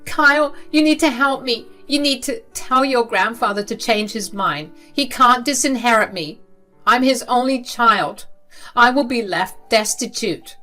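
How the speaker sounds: high, loud urgent plea; desperate plea. Acted. Mother begging her son Kyle to help, high and urgent. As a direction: press your son to help you.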